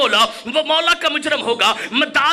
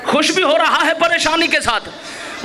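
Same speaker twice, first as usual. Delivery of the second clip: slower, savouring the line with a laugh; slow emphatic repeat. Shown as a demonstration. Preacher repeats to the congregation, slow and relishing. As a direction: draw it out for effect.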